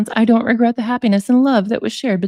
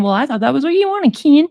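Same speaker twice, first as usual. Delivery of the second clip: mock whiny self-quote; 5 semitones higher than usual. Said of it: "blamed it all on his mom and saying".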